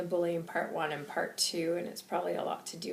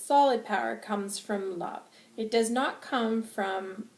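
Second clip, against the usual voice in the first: drawn-out impassioned oratory; angry, passionate; 2 semitones higher, 3 dB louder, slower than usual. Acted. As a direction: preach it with heated emphasis. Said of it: "I'm very angry and I'm very passionate".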